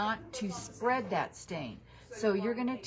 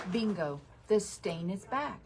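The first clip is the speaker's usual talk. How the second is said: ordinary delivery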